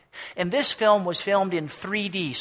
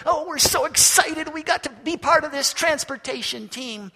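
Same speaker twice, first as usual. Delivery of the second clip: thrilled; 9 semitones higher, 3 dB louder than usual. Acted. Thrilled wheels chosen for the team.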